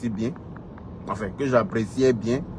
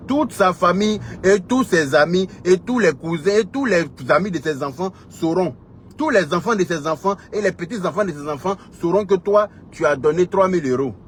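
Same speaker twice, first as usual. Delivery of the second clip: heated, high-pitched public scolding; indignant tirade; 6 semitones higher than usual. Real, not acted. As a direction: pile up the list, pitched high. Indignant piled-up list against opponent.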